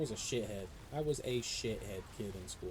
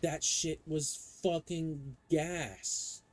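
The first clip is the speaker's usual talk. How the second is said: hyped; 4 semitones higher, much slower than usual. Real, not acted. Hyped praise of old phone.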